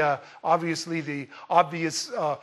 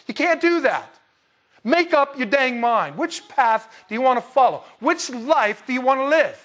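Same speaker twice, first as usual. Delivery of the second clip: forceful, higher-pitched prophetic challenge; preaching; 5 semitones higher, 3 dB louder than usual. Real, not acted. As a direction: drive each choice home like a preacher confronting the crowd. Preacher presses the congregation to choose.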